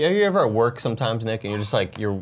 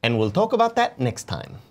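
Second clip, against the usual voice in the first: high, fast Scottish impression; Scottish accent; 6 semitones higher than usual. Shown as a demonstration. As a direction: put on a Scottish lilt. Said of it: "Let me hear your Scottish accent".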